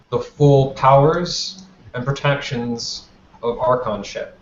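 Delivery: halting ceremonial proclamation with long pauses; lightly acted formal decree, phrase by phrase; prince's public address. Kostas grants Archons their powers before the gala, measured ceremonial address.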